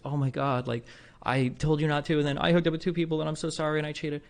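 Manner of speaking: high, pleading retold apology, lightly tearful; mock crying. Girlfriend confesses on a late phone call, mock tearful. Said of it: "She's, like, crying".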